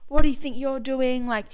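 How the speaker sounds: imitating an indignant accuser; retold confrontation. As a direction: confront a thief, lightly acted. Retold confrontation over a stolen drink.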